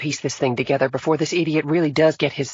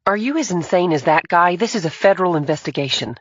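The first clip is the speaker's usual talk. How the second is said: much higher, louder indignant protest; exasperated female agent; 4 dB louder than usual. A narrator's reading. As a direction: scold the lawyer. Emily voiced as character.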